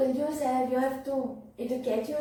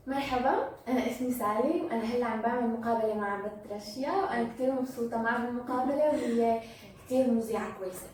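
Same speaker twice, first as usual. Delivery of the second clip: Syrian Arabic accent; 3 semitones lower, much faster than usual. Shown as a demonstration. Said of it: "Arabic Syrian accent".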